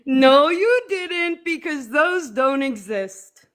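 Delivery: slow put-on Arab accent. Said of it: "going into your Arab accent".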